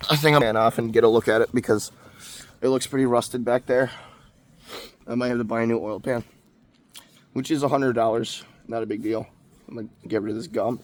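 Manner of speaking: talking while chewing gum; words around a wad of gum. Real, not acted. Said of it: "I'm chewing gum while I'm talking".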